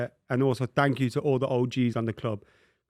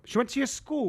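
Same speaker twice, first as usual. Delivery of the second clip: surprised; 12 semitones higher than usual. Real, not acted. Surprised at news.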